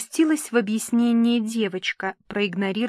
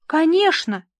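high, louder gushing assent; cooing reassurance; 8 semitones higher, 6 dB louder than usual. A narrator's reading. Papa soothes tearful Nina, cooing. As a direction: coo it indulgently. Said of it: "заворковал папенька".

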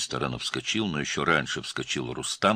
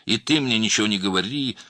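higher and louder, hitting ты; 8 semitones higher, 8 dB louder than usual. A narrator's reading. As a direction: punch ты, loud and final. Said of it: "продолжал громким голосом".

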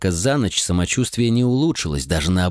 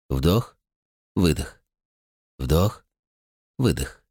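lower, calm counted breaths; steady breathing count; 4 semitones lower, slower than usual. A narrator's reading. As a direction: pace the breaths to stay conscious. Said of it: "сосредоточился на дыхании".

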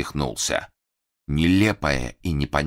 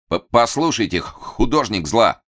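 loud, stammering; 6 semitones higher, 4 dB louder than usual. Acted. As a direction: stammer loudly with a higher pitch. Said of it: "громко сказал Фандорин".

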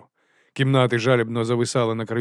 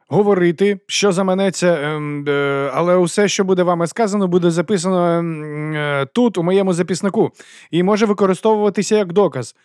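much higher, louder halting recitation; Carrot reading rights; 7 semitones higher, 5 dB louder than usual. A narrator's reading. Морква зачитує права, голосно й старанно. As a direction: plough on with the formula.

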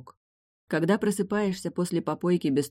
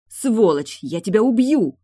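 higher, much louder furious shout; raging threat; 6 semitones higher, 8 dB louder than usual. A narrator's reading. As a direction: scream it while yanking the door. Trying to break the door.

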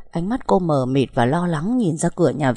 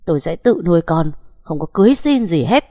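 tearful shout; 4 dB louder than usual. Acted. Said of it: "gào thét trong nước mắt".

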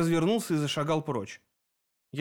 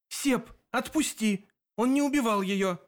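a bit firmer; 8 semitones higher than usual. A narrator's reading. Narrator repeats to Sep, now firmer and insistent. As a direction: insist harder, pressing each word. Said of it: "повторила я уже немного жёстче".

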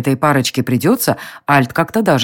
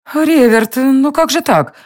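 higher, reproachful queen's cry; lightly voiced dismayed queen; 9 semitones higher, slower than usual. A narrator's reading. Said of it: "воскликнула Алиста". (огорчённая королева, выше)

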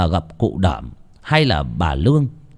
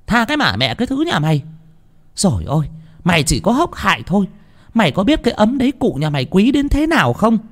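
much higher, fast shrieking rebuke; furious scolding; 11 semitones higher, faster than usual. Acted. Landlady glaring at the begging servant, furious high scolding. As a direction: scream scorn at the servant. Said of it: "bà cả Lương trợn mắt".

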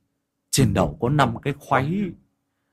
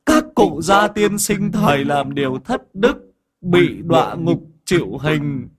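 put-on higher, whiny childlike voice; like a child; 5 semitones higher, 4 dB louder than usual. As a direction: whine like a small child. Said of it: "mồm chu choa lên như đứa trẻ con". (ông Định qua xác ông đồng, giọng trẻ con nhõng nhẽo)

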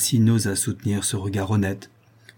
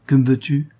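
short, commanding demand, louder and higher; curt and imperious; 5 semitones higher, 5 dB louder than usual. A narrator's reading. Camille to her rival, curt and imperious. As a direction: snap the question like an order. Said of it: "d'un ton bref et impérieux".

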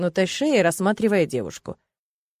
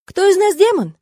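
high, louder sarcastic jab; mocking question; 10 semitones higher, 6 dB louder than usual. A narrator's reading. Heroine mocks Alena, high louder sarcasm. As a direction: throw it back at her, high.

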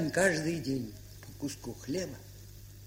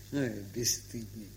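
laughing tease; 9 semitones lower, 9 dB quieter than usual. Acted. Pasha teasing her nephew Seryozha.

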